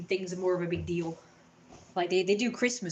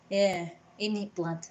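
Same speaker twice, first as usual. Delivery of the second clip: mock street slang. Repeating slang mockingly.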